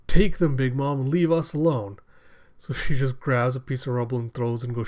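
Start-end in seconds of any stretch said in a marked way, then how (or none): 0.1-2.0 mock defiant shout. Hyogoro defies Big Mom.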